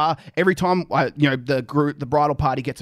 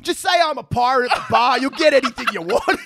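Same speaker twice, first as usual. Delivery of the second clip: excited; 8 semitones higher than usual. Retold or imitated. Excitedly urging friends at the bar.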